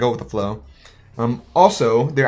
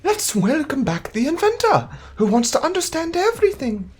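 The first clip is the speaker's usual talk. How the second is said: announcer voice; 14 semitones higher than usual. Acted. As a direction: introduce the hero with pomp. Announcing the character, high voice.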